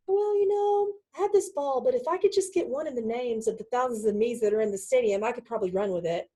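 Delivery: high mock-helpless voice, sinking as it goes; disempowered. Player explaining why they can't run yet, mock helpless. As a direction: act out a feeble excuse, starting high and tailing down. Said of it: "how disempowering it can be".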